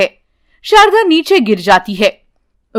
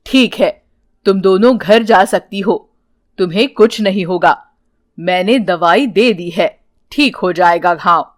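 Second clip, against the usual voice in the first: reassuring holy man; 5 semitones lower than usual. Acted.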